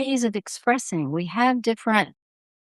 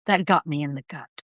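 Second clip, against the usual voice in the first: felt in the gut; 5 semitones lower than usual. Shown as a demonstration. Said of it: "Or we say".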